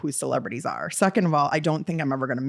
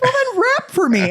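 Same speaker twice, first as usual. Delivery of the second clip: mock drunken dare; 5 dB louder than usual. Drunk teller dares Eve.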